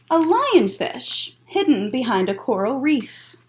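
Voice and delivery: gentle storytime read-aloud; picture book voice for kids; reading to children. Acted. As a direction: read it slowly to little ones.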